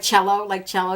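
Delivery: "cello" starting with a ch, as in chess; ch sound in cello. Shown as a demonstration. Beauty vlogger showing how she thought it was pronounced, "cello" with ch. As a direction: say "cello" as CHEL-oh. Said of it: "I thought it was pronounced".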